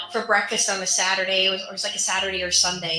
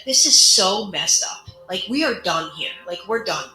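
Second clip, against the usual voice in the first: retold outburst; 5 dB louder than usual. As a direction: lean hard into each word, fed up. Telling him they're done.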